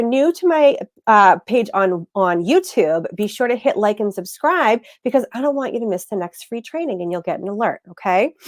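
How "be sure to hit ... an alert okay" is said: congested, blocked-nose nasal voice. Real, not acted. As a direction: talk through a stuffy nose. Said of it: "I'm a little, um, nasally today".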